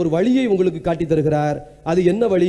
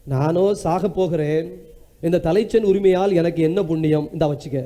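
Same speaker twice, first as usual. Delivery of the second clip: weary resignation; 4 semitones lower than usual. Acted. Esau giving up, voiced in story.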